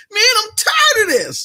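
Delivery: very high-pitched, fed-up, angry voice. Telling his stream how his voice goes when he gets super mad: mock-mad super high pitch. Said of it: "you get the super high pitch".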